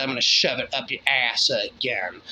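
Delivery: lightly voiced ice demon, dropped low; a hint of a sinister demon inside. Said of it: "The ice demon said".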